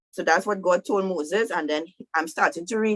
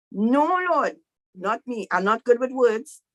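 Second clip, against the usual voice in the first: protesting Moses; 4 semitones higher than usual. Retold or imitated. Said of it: "hear what Moses telling God".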